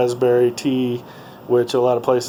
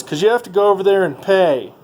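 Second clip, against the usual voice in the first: imitating the woman; 7 semitones higher, 3 dB louder than usual.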